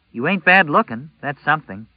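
put-on a teasing young girl. A narrator's reading.

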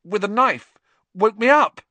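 frightened report. Acted. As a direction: tell it in shaken bursts. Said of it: "said Ron faintly".

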